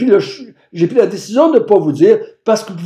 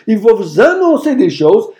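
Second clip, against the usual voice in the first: preaching shout; 4 semitones higher than usual. Acted. Preacher climaxes quoting Jesus.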